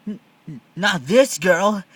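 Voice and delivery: stretched loud refusal; firm refusal. Acted. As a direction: shove him off with the words. Libby refusing, pushing Sheen out.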